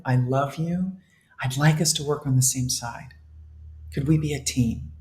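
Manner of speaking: put-on soft, gentle coaxing as to a small child; speaking lovingly to your own subconscious, gently; tender reassuring self-talk. Shown as a demonstration. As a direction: reassure your inner baby softly. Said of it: "talk to your own subconscious like the baby".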